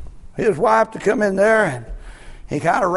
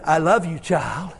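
gentle voice of God; 2 semitones higher than usual. Pretend. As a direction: comfort a suffering child. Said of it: "He's saying".

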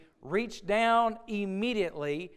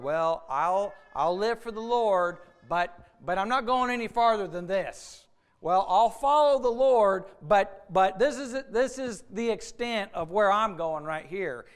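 a hint of a hedging believer, louder and stammering; mock reluctant believer; 5 dB louder than usual. Preacher imitating a believer who sets limits, louder mock hedging. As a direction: voice the half-hearted excuse a little loud. Mimicking a hesitant believer's excuses.

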